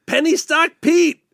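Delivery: mock commercial announcer. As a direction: pitch the sponsor like a cheesy radio spot. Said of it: "The following sponsor".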